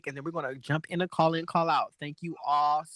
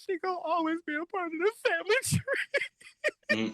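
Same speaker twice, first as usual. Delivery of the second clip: mocking RuPaul; 14 semitones higher than usual. Mocking RuPaul's farewell to Kimora.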